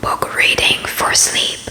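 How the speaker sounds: whispered bedtime story reading; breathy whisper read for sleep; ASMR whisper. Acted.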